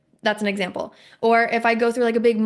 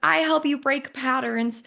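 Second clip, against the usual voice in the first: mock coach jargon; 4 semitones higher, slower than usual. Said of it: "Now you just took it from".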